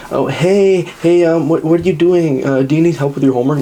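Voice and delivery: high, eager mock voice, rushing at the end; mocking nervous texter. Mocking a guy texting a girl, high and eager. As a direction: ham up an awkward, eager guy.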